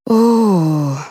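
drawn-out groan of despair; moan. A narrator's reading. Colonel despairing at the women, moaning. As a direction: let out a weary moan. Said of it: "простонул Дегтярев".

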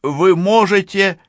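high, loud, slow call; drawn-out high-pitched shout. A narrator's reading. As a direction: shout slowly to the criminal inside. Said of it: "крикнула Францискович преступнику".

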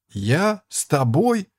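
high, incredulous outcry; indignant shout. A narrator's reading. Boy denying he knew the monk, high indignant yelp. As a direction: throw the question back, outraged. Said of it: "опять закричал Фриц".

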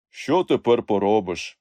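slow, mildly resigned question; resigned sigh. A narrator's reading. Young highlander to his uncle, sighing resignation. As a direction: let it out slowly, resigned. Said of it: "зітхнув на повні груди легінь".

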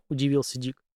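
ordinary delivery, nothing marked

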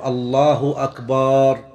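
slow "الله أكبر" with the last vowel held long; stretched ba. Shown as a demonstration. Teacher showing the mistake, "أكبر" lengthened to akbaaar. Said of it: "مد الباء في أكبر".

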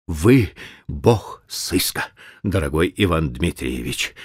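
tongue-tied, slow mumbling; slurred mumble. Acted. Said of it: "заплетающимся языком пробормотал".

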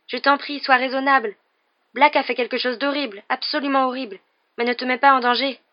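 high, urgent, imploring voice; tearful pleading. A narrator's reading. Hermione begging Harry not to hunt Black, tearful pleading. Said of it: "les yeux brillants de larmes".

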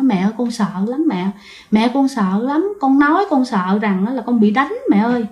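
soft, mock tearful plea; a lightly voiced frightened daughter clinging to her mother; imitating a crying child. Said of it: "Thì bạn mới khóc".

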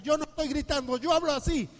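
acted denial, voice rising. Husband denies shouting at his wife, voice rising high. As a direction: pitch climbing high in defensive protest. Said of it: "empieza a subir el tono de voz".

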